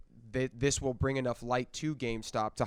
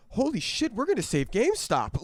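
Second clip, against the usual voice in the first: much higher, louder mock disbelief; excited shriek; 11 semitones higher, 6 dB louder than usual. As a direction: shriek it like you can't believe it. Louder retelling of the meme hype.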